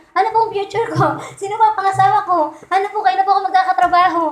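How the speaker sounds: mock questions to a fortune teller; mock fortune-seeker. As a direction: play the eager fortune-seeker asking about fate. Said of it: "lucky charm".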